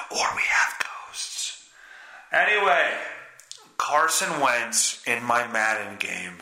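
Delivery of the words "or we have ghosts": mock-eerie whisper; hushed, teasing ghost-story voice; spooky whisper. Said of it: "spooky ghost joke".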